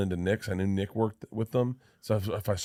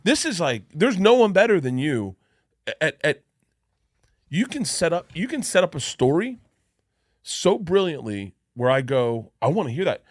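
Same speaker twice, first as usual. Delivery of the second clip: excited praise; 7 semitones higher, 5 dB louder than usual. Retold or imitated. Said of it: "And I was like".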